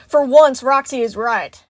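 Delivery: loud, fed-up outburst; frustrated, hurried tirade; angry yelling. A narrator's reading. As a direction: argue it hotly, wanting out. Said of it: "Monty yelled".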